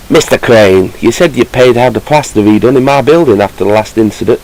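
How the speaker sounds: put-on a loose West Country accent for Mister Toad's letter; half-hearted West Country accent; reading a letter in an accent. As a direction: read it as a grumpy West Country landlord. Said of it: "I don't know what bloody accent that is".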